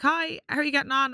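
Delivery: mock friendly Irish lilt; put-on accent. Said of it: "we're doing the accents".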